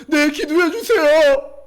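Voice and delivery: high, loud, slow begging; imitated tearful plea. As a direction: plead desperately, acting it out. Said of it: "울면서 이렇게".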